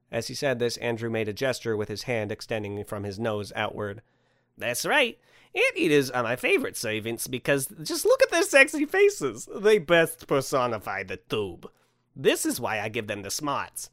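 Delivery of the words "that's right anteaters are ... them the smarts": gushing Santa. Acted. Santa praises his anteater servants, gushing.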